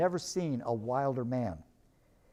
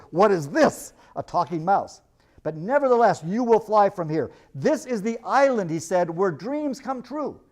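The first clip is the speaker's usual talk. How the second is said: wild stranger; 3 semitones higher, 4 dB louder than usual. Acted. Wild stranger warns the crew.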